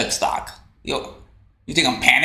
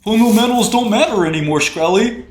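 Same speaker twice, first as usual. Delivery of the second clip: mock heckler taunt; 6 semitones higher, 3 dB louder than usual. Mocking a chat heckler.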